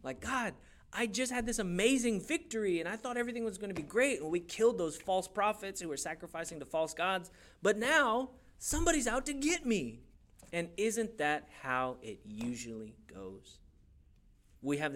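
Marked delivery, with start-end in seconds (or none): 0.2-10.0 higher-pitched complaint to God; lightly acted aggrieved prophet; Elijah. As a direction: plead in mild disbelief, climbing at the end. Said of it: "I empathize with Elijah here".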